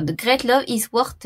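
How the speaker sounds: English with a French accent. Real, not acted. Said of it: "faites pas attention à mon accent".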